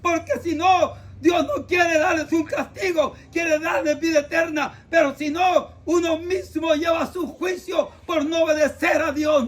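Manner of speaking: urgent, impassioned call to repent; heartfelt preacher's cry. Real, not acted. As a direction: cry it out to the sinners with all your heart. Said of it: "les grito con todo el corazón".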